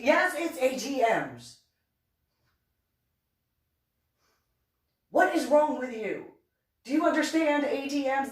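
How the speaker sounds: high, emphatic mock lecture; exasperated scolding. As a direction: spell it out as if to a fool.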